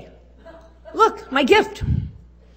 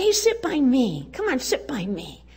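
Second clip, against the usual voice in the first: friendly invitation; 3 semitones higher than usual. Shown as a demonstration.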